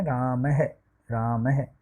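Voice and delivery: "राम है" sounded out as Rama-ha; visarga as h. Shown as a demonstration. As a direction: demonstrate "राम है" with an h-syllable closing it. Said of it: "विसर्ग को हम है से उच्चारित करते हैं".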